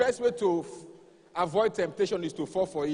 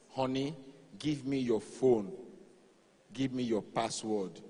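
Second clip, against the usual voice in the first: low demanding wife; 6 semitones lower, 4 dB quieter than usual. Retold or imitated.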